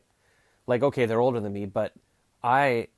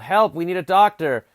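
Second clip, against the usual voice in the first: mock call for help; 8 semitones higher, 10 dB louder than usual. Plane passenger calling for doctor.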